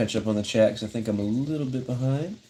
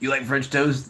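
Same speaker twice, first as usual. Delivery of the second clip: buddy's voice, pitched a bit higher; imitating his buddy; 4 semitones higher than usual. Buddy offering the streamer French toast, imitated higher voice. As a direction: lightly mimic a friend, slightly higher. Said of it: "that's what his voice sounds like".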